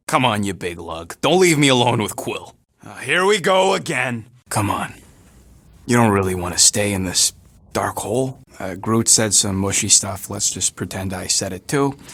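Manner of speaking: deep booming cartoon voice; big dopey low bellow. Low far voice while coaxing Groot.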